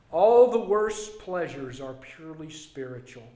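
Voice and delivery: measured reading with long pauses; solemn quotation reading. Real, not acted. Preacher reads C S Lewis's words to church, solemnly measured.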